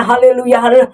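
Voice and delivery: breathless haleluya; out of breath. Pretend. Rider gasping after the scare, breathless. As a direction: pant it out, exhausted. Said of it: "narik napas saking deg-degan, capek ya tariknya".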